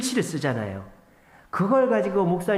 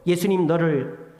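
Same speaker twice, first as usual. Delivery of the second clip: nagging devil; 3 semitones higher than usual. Acted. Preacher voicing Satan nagging in believers' ears, mock accusing. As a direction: nag like the accusing devil, climbing to a shout. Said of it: "사탄 마귀가 여러분 귀 속에 왱왱왱왱 거릴 거예요".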